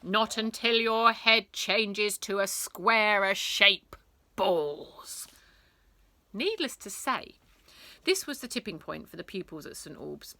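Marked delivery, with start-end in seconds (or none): 0.0-5.3 stern teacher. Acted. Teacher refusing.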